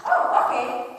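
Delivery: the penny drops, gasped out high; sudden realization. Retold or imitated. Child suddenly understands.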